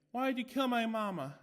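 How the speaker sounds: high, loud eerie doll voice; the doll accuses the maid; creepy doll. A narrator's reading. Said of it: "asked the doll".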